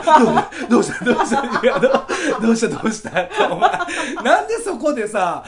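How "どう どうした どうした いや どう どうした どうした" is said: imitating a friend eagerly asking what happened; gleeful prodding. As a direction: tease him like you're dying to know. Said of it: "めちゃくちゃ嬉しそうに聞いてくれよ". (嬉しそうに「どうした」と聞く真似)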